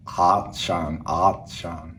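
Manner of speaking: a lightly voiced Austrian "Atshan"; Arnold Schwarzenegger accent. Shown as a demonstration. Learner contrasts Arnold accent with American. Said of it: "And Arnold accent".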